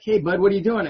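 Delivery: put-on a grandpa catching a kid mid-mischief; calling out. Grandpa on the porch calling out to the boy stripping his bike brakes.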